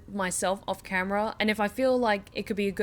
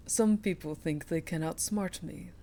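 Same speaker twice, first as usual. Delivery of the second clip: put-on Russian accent; 3 semitones lower, 4 dB quieter than usual. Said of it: "bring back Steph's Russian accent".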